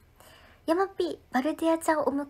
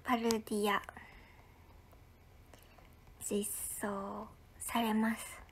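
whisper; 4 semitones lower, 9 dB quieter than usual. Real, not acted. Dramatic whispered announcement.

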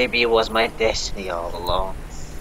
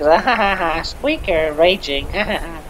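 mock raging squeaker cackle, pitched up; mock rage laugh; 5 semitones higher than usual. Squeaker showing friend how his rage would sound, mock raging laugh. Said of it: "it'd be like".

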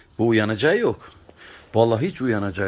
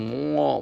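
kiss sound; 5 semitones higher than usual. Retold or imitated. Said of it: "mua diyor".

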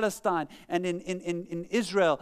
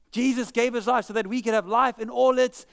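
mock wrong version; 3 semitones higher, 4 dB louder than usual. Shown as a demonstration.

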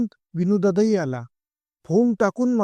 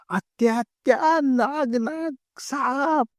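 panicked; 8 semitones higher, much slower than usual. Acted. Boys panic about the snake.

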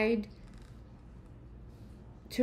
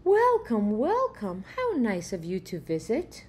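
hearty welcome; 4 dB louder than usual. Acted. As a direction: throw the door open with your voice. Uncle Rye greets the robber.

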